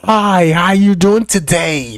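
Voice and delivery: lightly voiced, slow doctor greeting; slow, lightly mocked doctor; doctor breathing on you. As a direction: draw the greeting out as if breathing into someone's face. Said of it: "sit up close on you like".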